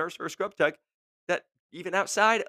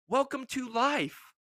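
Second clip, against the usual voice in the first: dry retort; 11 semitones higher, much slower than usual. Real, not acted. Blunt retort to whiner.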